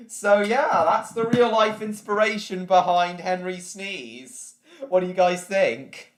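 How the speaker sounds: excited, loud. Real, not acted. Loud hyped wrap-up.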